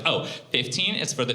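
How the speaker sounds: flat, matter-of-fact bartender imitation; deadpan the price like he's bored; bartender's voice. Comic imitates the bartender explaining the charge, deadpan. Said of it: "this is his voice".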